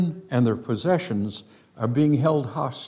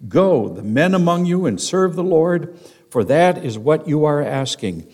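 emphatic denial; 4 semitones higher, 3 dB louder than usual. Retold or imitated. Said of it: "most emphatic denial".

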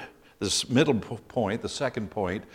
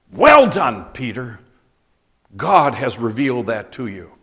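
hearty praise; 8 dB louder than usual. Retold or imitated. Jesus praising Peter.

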